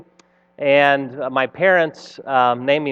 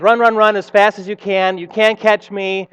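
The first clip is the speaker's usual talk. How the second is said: lightly voiced storybook runaway, pitched higher; higher, rhythmic storybook call; taunting Stinky Cheese Man; 4 semitones higher, 4 dB louder than usual. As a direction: chant it as a playful taunt. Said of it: "where the Stinky Cheese Man says".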